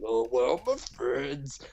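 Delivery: slow, lightly put-on voice of a lost hero; a mild forlorn call for friends; lost cartoon character. Recapping the show, a lightly voiced lost character.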